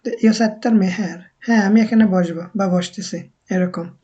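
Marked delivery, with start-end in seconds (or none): 0.1-1.2 jag sätter mig spoken very slowly, word by word; slow careful model sentence for learners; slow Swedish demo. Shown as a demonstration. Teacher modelling a Swedish sentence for students, very slow.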